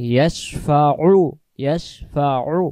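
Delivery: ইয়াশফাউ slowly with আইন squeezed in the throat; pressed ain. Shown as a demonstration. Teacher demonstrating throat-pressed আইন. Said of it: "আইন অক্ষর গলা চেপে পড়ব".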